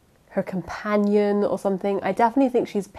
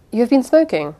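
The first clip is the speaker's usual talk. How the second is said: higher, louder acted accusation; mild acted reprimand; 6 semitones higher, 4 dB louder than usual. A narrator's reading. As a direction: confront the culprit, voice lifted. Narrator accuses servant of smoking.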